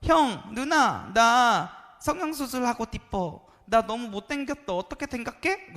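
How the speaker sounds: put-on loud, high, babyish pleading voice; hammed-up lisping youngster seeking advice; troubled young friend. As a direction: whine to an older sibling, high and drawn out. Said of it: "한 친구가".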